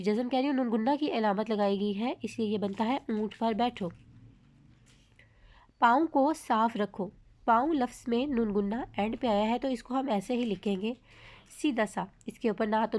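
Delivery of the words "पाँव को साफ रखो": a bit slower, each word distinct; slow clear reading. Shown as a demonstration. Teacher reading an example to students, slow and clear. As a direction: spell it out with your voice. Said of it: "जो हम आपको पढ़ के सुनाएंगे".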